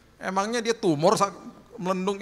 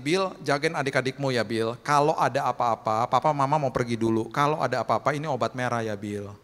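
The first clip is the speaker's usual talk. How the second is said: imitating father; 5 semitones lower than usual. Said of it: "papa saya bilang gini".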